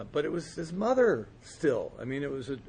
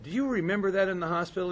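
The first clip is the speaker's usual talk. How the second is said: eager high question; 6 semitones higher, 3 dB louder, faster than usual. Retold or imitated. Asking an old friend.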